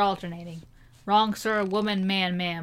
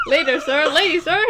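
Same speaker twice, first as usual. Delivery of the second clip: American English; 5 semitones higher, 4 dB louder than usual. Retold or imitated. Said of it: "you're speaking American English".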